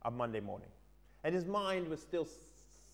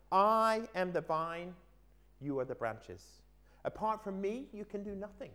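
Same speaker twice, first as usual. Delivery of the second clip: Jesus speaking; 5 semitones higher than usual. Acted. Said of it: "Jesus said".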